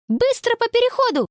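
high, urgent command; rally the friends, fast. A narrator's reading. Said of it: "скомандовала она".

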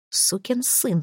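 soft start to an angry threat; threatening curse. Acted. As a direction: spit it at the boss. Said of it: "предупредил Джек".

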